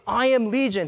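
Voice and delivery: retold angry proclamation. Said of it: "he says out this angry voice".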